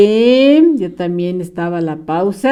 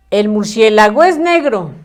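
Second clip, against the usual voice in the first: El murciélago es negro run together with no gaps between words; read all run together. Shown as a demonstration. Teacher showing pupils the wrong reading, words run together. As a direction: read it as one blurred chunk, the wrong way. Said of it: "Muy mal leído, muy mal escrito".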